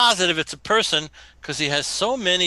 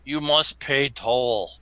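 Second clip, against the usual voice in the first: gruff voice; 3 semitones lower, slower than usual. Acted. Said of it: "he says in a gruff voice".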